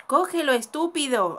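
loud, slow, exasperated order; nervous exasperation. Real, not acted. Player scolds the boy in the game, nervous exasperation. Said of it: "me estás poniendo muy nerviosa".

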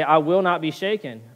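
bold, firm and sure; facing trials, calmly certain of God; confident declaration. Pretend. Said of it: "a point of confidence to say".

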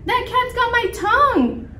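very high squeaky mock wail; hammed-up falsetto distress; panicked squeak. A narrator's reading. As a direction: squeal it like a frightened mouse butcher. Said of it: "squeaked the butcher".

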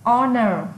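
"Honor" with a silent H, falling tone. Shown as a demonstration. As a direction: begin "Honor" on the O vowel, no H. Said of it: "chữ hơ cũng bị câm".

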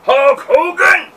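slow, loud, high villain curse; laying a curse. Retold or imitated. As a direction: drag it out like a cartoon villain cursing. Quoting a wrestler's curse.

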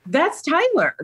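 high-pitched, stunned recognition; retold upset. Mother retelling spotting her son on the video, upset. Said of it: "I was so upset at that point".

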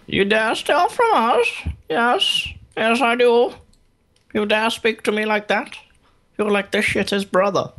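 high, slow mock villain taunt; booming boss voice. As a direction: ham up the angry boss. Voicing a boss taunt aloud.

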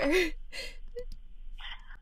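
soft, high breath-only whimper; fake crying. Caller sits at computer as helper pleads, crying. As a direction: whimper into put-on tears. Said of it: "Please stop crying".

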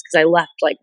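usual speaking voice

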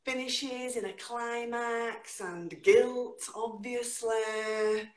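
slow, rhythmic spoken-word delivery with big pitch leaps; dramatic poetry reading with slow, stretched lines; performance poetry. Acted. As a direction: perform the poem to a live room. Performs her poem live.

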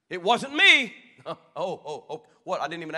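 put-on high, loud squeaky kid's voice; a caught child's loud high protest; mock child's denial. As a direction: squeal it like a guilty little kid.

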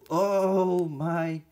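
loud startled gasp as tarantula threatens; startled cry. Real, not acted. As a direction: jump back with a loud oh my. Spider lunges at her.

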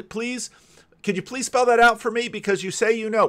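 high-pitched mock pleading; James Tour. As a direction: imitate an insistent plea for an explanation. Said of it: "people like James Tour that say".

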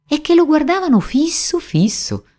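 high, hushed storyteller emphasis; wide-eyed narration. A narrator's reading. Wooden eyes stare at Geppetto, wide-eyed narration.

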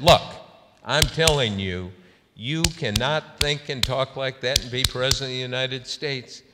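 insistent imitated scolding, punched at the start; intense. Senator refusing a reporter's pushback, intense. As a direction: repeat the telling-off emphatically. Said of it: "She really got, uh, intense".

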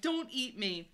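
slightly toned-down high plea; begging. A narrator's reading. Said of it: "I begged".

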